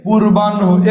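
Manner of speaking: পূর্বাহ্ন as purban-ho, with audible h; correct pronunciation. Shown as a demonstration. Teacher repeating the answer for students, correct pronunciation. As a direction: end পূর্বাহ্ন on n-ho. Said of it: "হবে".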